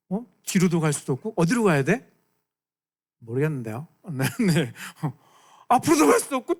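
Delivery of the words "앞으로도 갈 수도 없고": 앞으로도 갈 수도 없고 said higher and louder; raised. Shown as a demonstration. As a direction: push it up with urgency. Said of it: "repeated louder".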